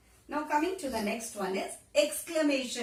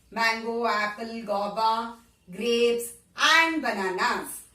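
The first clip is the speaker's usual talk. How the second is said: slow listing; 6 dB louder, slower than usual. Shown as a demonstration. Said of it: "teacher listing fruits slowly".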